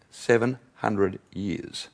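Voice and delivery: slow and soft, each word apart; hushed awe. Real, not acted. Preacher echoes the figure that stunned the crowd, hushed awe. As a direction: let it sink in, very slowly and softly.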